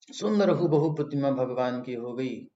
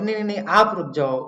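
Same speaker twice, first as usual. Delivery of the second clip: fast, loud, higher-pitched retold plea; urgent plea; 5 semitones higher, 7 dB louder, faster than usual. Devotee runs to stop the departing Lords, urgent plea. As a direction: call out quickly to stop them.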